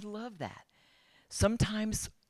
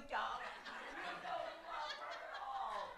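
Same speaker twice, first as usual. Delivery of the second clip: laughing at the TV; 13 semitones higher, 15 dB quieter, slower than usual. Retold or imitated. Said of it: "I was screaming at the T V".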